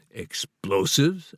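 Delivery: slow, drawn-out "Explosives?" rising high in mock disbelief; startled retort. Author throws the guard's word back, mildly startled. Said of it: "I retorted startlingly".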